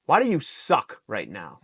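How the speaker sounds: blunt rebuke, played for example; harsh call-out. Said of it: "instead of me being like".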